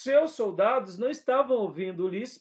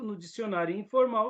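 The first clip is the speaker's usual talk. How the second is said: normal talking voice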